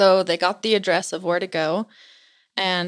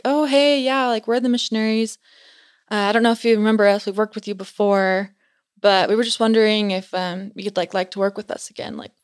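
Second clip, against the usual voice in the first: friendly missionaries. Retold or imitated. Missionaries greeting at the door.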